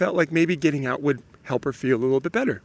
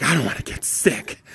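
diva whine; 4 dB quieter than usual. Retold or imitated. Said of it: "super diva".

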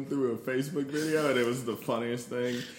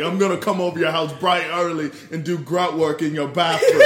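loud, higher mock-British accent; British threat; 4 semitones higher, 8 dB louder than usual. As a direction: menace them in a comically put-on British accent. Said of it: "when a British dude, like, tries to threaten you".

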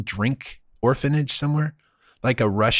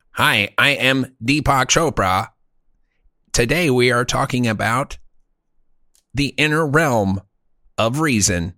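scrubbed Deepak Chopra. Pretend. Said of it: "It'll sound like this".

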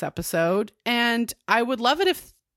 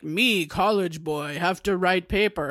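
weirdo caveman voice. Retold or imitated. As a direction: imitate a plodding caveman, just a hint. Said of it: "like, weirdo caveman voice".

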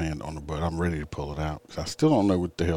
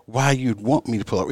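higher put-on whiny voice of the driver; mock driver excuse; 6 semitones higher, 4 dB louder than usual. Officer imitating the driver's excuse, higher mocking voice. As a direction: play her excuse back in a silly higher voice. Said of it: "she's like".

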